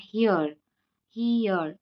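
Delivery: हियर gliding from ee into air; diphthong demo. Shown as a demonstration. Teacher modelling the diphthong in हियर. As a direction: slide हियर from ee to a. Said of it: "यहाँ पे ई भी आ रहा है, एयर भी आ रहा है".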